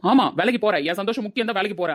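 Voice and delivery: sarcastic, indignant echo; mocking echo. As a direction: throw the words back mockingly. Mocking echo in lovers' quarrel.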